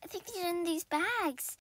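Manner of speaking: soft whispered aside; whispering to herself while digging in bags. Acted. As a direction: whisper it while you search. Searching the bags.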